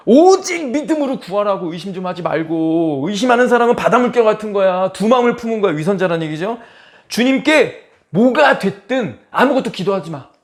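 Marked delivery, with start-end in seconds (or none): 0.1-5.7 loud, high-pitched scolding; forceful rebuke. Acted. Preacher paraphrasing the verse as a rebuke to doubters, forceful. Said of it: "뉘앙스가 강력하죠". 7.1-10.3 stern tone. Acted. Preacher voicing the verse's warning to the double-minded, stern. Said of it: "이런 논조거든요".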